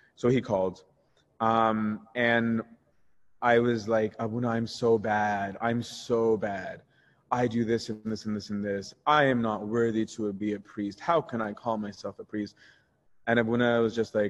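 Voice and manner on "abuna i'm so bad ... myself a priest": mock self-pitying lament. Retelling own words from a past pity party: retelling own self-pity. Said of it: "an ego, uh, pity party".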